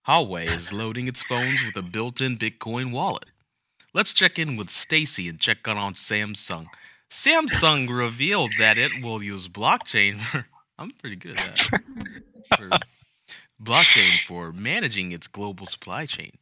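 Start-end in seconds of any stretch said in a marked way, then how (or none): 0.1-10.5 hammed-up news anchor read; mock anchorman delivery; newscaster voice. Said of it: "I wanna try one of those newscaster voices". 12.6-16.3 newscaster voice. Pretend. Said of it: "I wanna try one of those newscaster voices".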